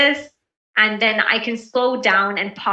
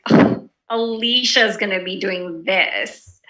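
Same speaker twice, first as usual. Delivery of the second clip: slow, slightly lower, unfriendly "Alicia's"; not very nice; 3 semitones lower than usual. Shown as a demonstration. Teacher demos a snide tone about Alicia, slow and unfriendly. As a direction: drag it out as if you dislike Alicia. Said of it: "I'm not being very nice to Alicia".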